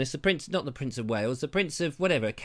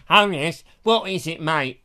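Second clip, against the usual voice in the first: off-duty royal; 5 dB louder than usual. Retold or imitated. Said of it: "that's how they speak".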